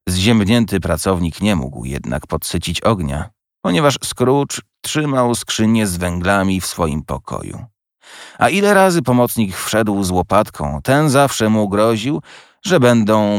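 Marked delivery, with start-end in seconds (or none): none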